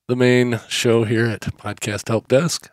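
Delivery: popping plosives on the mic; hard p pops into the microphone; popping p sounds. Real, not acted. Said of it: "sorry about the, uh, popping peas".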